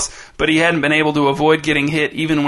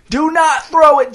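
high, loud, slower choked yell; strangled desperate shout; 12 semitones higher, 5 dB louder than usual. A narrator's reading. Dez pleads harder with Jace, slow strangled shout. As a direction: drag out the plea in panic. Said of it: "his voice strangled, shouted".

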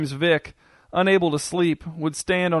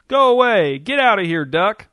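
loud, higher-pitched playful shout; kids' gleeful shouting; 5 semitones higher, 6 dB louder than usual. A narrator's reading. Kids on the beach join in chasing off the duck, shouting. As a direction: shout like kids enjoying a game. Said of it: "The kids shouted too, enjoying the game".

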